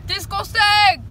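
slow, loud disgusted cry; disgusting shout. Pretend. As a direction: drag it out in disgust.

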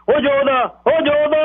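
high, slow call across the house. A narrator's reading. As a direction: call the son out from inside, drawn out. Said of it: "ਬੈਠਕ ਦੇ ਹਾਕ ਮਾਰੀ". (ਉੱਚੀ ਲੰਮੀ ਹਾਕ)

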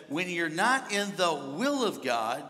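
slow, deliberate delivery; God's measured pronouncement. Retold or imitated. Preacher passing on God's words to him, slow and deliberate. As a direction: lay it out slowly, weighing each word. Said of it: "God spoke to me this".

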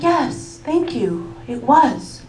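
slow, laughing gush about the schnitzel; laughing mock admission; giddy confession. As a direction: give the game away happily. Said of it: "I'm like".

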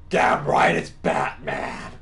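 loud, low growled boast; triumphant Batman. Acted. Batman answering his own knock-knock, loud growl. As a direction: growl it out proudly.

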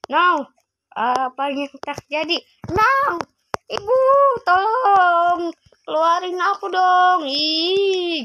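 high, loud pleading for help; panicked cries. Acted. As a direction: scream for mom to let you out. Being eaten by his mother. (berteriak minta tolong dengan suara tinggi)

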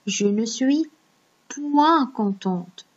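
slow reading with point drawn out; slow example sentence. Shown as a demonstration. Teacher reading a second example to pupils, slow and careful. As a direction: linger on "point" like a model sentence. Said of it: "si je dis".

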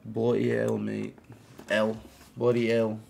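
lightly attempted Australian accent. Streamer retrying his not-great accent, lightly mock Australian. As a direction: practise an Australian accent, none too well. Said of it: "Australian accent".

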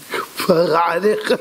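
slow, drawn-out endearment; adoring praise. Acted. King to the advisor who saved his son, adoring. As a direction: stretch it out in admiration.

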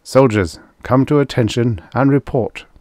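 careful, formal military order; ritual command. A narrator's reading. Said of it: "Carefully he framed the ritual words".

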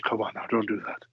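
zacht en timide, bijna binnensmonds; meek referee. Retold or imitated. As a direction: een slappe scheidsrechter die zwak protesteert. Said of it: "the referee just looked at him and went".

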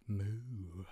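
soft low moo; low cow moo. Shown as a demonstration. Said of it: "Impression of a cow".

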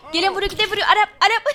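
exasperated shout at the attacker; shouting a name. Real, not acted. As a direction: yell the name to make him stop. Yelling at a player hitting him.

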